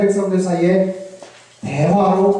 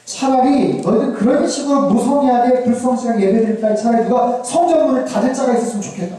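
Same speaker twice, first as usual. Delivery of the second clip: higher-pitched, exasperated reproach; hurt resentment; 4 semitones higher than usual. Acted. God fed up with insincere worship, mildly resentful. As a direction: let disappointment push out a long complaint. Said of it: "섭섭함이 막 배어나요".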